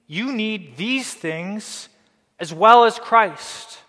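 high, loud, insistent urging; mock persuading Judaizer. Preacher voicing the Judaizers urging the Colossians, high and pleading. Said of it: "they were trying to persuade them".

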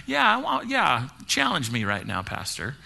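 a playful dare, rising then dropping away; hint of a cocky skeptic; mock challenging skeptic. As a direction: tease the pastor as a doubter. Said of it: "a skeptic today who is going like".

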